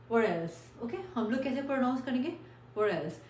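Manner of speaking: "What else" with a light, smooth D for the T; pron demo. Shown as a demonstration. Teacher to students: "What else" with a smooth D. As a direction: tap the tongue lightly so "What else" sounds like "wadelse". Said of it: "proper डी नहीं होगा".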